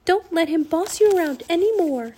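high, loud exhortation; urgent urging. A narrator's reading. Annie urging Rourke to defy the king, loud urging. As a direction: urge him hard to stand up. Annie urges raven to rebel.

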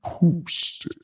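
breathy whisper on the words. Shown as a demonstration. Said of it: "it sounds good when I say".

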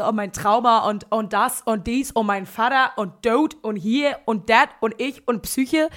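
loud, punchy mock confessional; breezy oversharing. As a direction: rattle off a list with emphatic, drawn-out key words. Oversharing freely to an audience.

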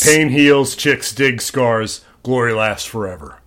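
slow and fading, solemn; solemn quote. Retold or imitated. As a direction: let "chicks dig scars" land slowly. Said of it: "he's giving a speech".

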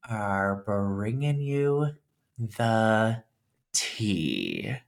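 very slow, drawn-out sloth drawl; super slow sleepy sloth. Pretend. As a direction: stretch every word like a sleepy sloth. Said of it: "I might be talking like the sloth scene from Zootopia".

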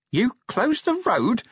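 high, slow, drawn-out yell; incredulous yell. A narrator's reading. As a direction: yell it in disbelief, word by word. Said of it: "he yelled as they plunged on".

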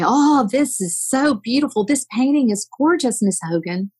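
retold bragging on someone's pictures, mildly effusive; gushing praise. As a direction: lift the pitch in admiring mock praise. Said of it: "I would brag on her pictures".

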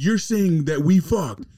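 drawn-out, confused high voice; mock husband. Retelling the husband questioning his wife, slow and high.

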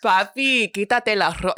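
playful seductive Spanish; lightly acted sultry Latina; sexual Latina. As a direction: purr it as a mock come-on. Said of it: "That was sexual".

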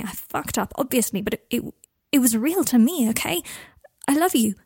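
confessing guilt, near tears; Harry, remorseful. Acted. Harry's earnest plea.

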